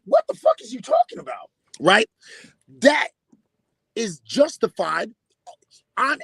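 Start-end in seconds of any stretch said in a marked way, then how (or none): 0.0-1.5 a hammed-up angry comeback; mock outburst. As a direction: jump way up and bark it out as a demo. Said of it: "I'll be like".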